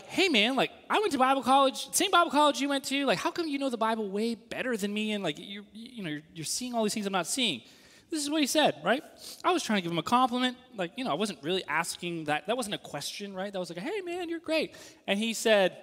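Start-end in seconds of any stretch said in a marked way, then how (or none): 0.0-7.6 higher, chummy flattering tone; butter up the professor lightly; eager younger self. Retold or imitated. Student complimenting his Bible professor, lightly voiced eager tone. 13.8-14.8 high, softer, breezy flattery; mock gushing compliment. Student flattering his mentor, high breezy gush.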